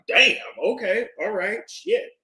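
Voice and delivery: high, stunned "Damn, okay" said in disbelief; shocked reaction. Retold or imitated. Reacting in disbelief to men on live streams, high and stunned. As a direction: caught off guard and taken aback. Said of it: "And I'm like".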